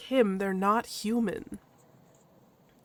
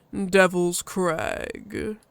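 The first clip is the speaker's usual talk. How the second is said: slow, louder, weighty denial; gruff husky Loken; 3 dB louder, much slower than usual. Acted. Loken answers the badger, gruff and firm. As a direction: answer slowly and firmly.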